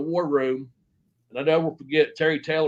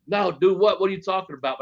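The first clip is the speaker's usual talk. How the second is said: higher-pitched feigned bafflement; playing dumb; 4 semitones higher than usual. Wrestler lying to his boss for a second, mock puzzled. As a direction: act puzzled to cover a small lie. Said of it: "I lied for a second".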